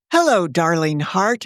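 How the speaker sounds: a lilting, gently swinging greeting; sing-songy. Acted. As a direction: sing the words lightly like a fond mother. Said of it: "in her best sing-songy voice".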